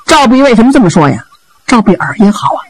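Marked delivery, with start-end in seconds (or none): none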